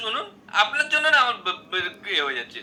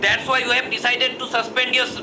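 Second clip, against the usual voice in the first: very slow, stiff English announcement; slow formal English; much slower than usual. Acted. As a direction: spell out each English word slowly and carefully. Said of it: "দারুণ ইংরেজি". (ধীরে, আড়ষ্ট ইংরেজিতে)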